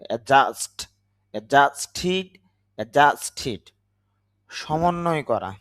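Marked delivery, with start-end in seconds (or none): 0.1-3.6 অ্যাডজাস্ট and অ্যাডজাস্টেড with no d before j; silent D. Shown as a demonstration. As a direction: drop the first ড in অ্যাডজাস্ট, অ্যাডজাস্টেড. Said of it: "এখানে ডি এর উচ্চারণ হবে না". (অ্যাডজাস্ট-এ ড উহ্য, "অ্যাজাস্ট")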